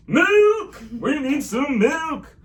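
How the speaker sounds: high excited yell; excited shout. Pretend. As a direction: shout it with glee. Chanting for milk.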